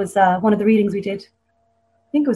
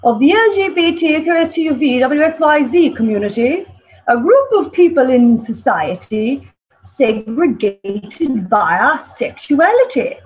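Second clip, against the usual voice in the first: put-on dodgy posh English accent; 4 semitones higher than usual. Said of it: "the poem involves a very posh, dodgy English accent".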